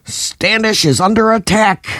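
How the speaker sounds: high shouted alarm. A narrator's reading. Panda alerting the crowd, high alarmed shout. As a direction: yell it like a panicked soldier. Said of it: "Panda shouted".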